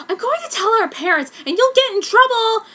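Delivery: high, loud whiny threat; tattling sister. Acted. Minto threatening to tell their parents on her.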